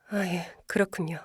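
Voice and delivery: whispered. Acted. Team lead on the phone, whispering grudging replies. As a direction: breathe the words without voice.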